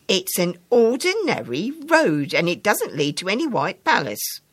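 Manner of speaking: put-on child insisting. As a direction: correct the grown-up with a small girl's certainty. Child firmly corrects again.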